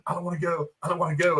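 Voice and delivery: a mild mock of a dying plea; imitating Peter. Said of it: "start talking like Peter when he got dusted".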